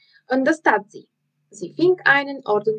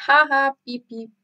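crowd cheering; 4 semitones higher than usual. Acted. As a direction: cheer her on from the stands.

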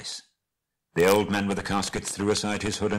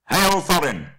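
high, loud ringing hail; loud formal greeting, pitched high; hailing call; 9 semitones higher, 8 dB louder than usual. Acted. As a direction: call up to someone far off. Bard hails Thorin at the gate.

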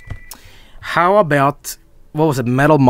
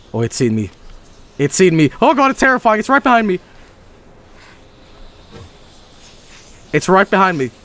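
scared horror game streamer; 4 semitones higher, faster than usual. Real, not acted. Monster chasing player.

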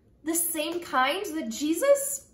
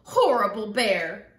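loud, lower-pitched indignant yell; stomping girl's shout; 5 semitones lower, 5 dB louder than usual. A narrator's reading. Girl stomping down the mountain, cross shout. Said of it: "The girl stomped down the mountain".

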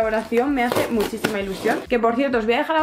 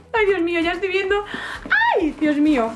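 excited gasp; 8 semitones higher than usual. Real, not acted. Unboxing, seeing the figures.

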